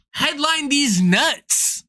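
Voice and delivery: slow, drawn-out taunt; mocking comeback. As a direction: stretch out the retort mockingly.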